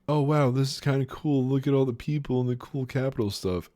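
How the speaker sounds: gushing mock amazement; imitating Peter. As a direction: play him as a loudly awed tourist. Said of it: "Peter's just like".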